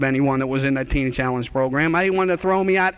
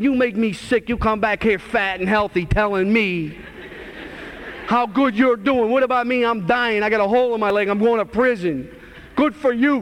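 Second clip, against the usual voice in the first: put-on higher, sneering outburst at an old friend; bitter retort; 4 semitones higher than usual. Retelling how he snapped at his clean friend, bitter and raised. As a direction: spit it back at him, resentful and raised. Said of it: "I got an attitude and I said".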